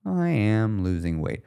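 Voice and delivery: slow, half-hearted sad try; attempted sad inflection. Shown as a demonstration. Coach testing a phrase in a sad inflection. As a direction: try to sound a little sad, slowly. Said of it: "hard to say with a sad".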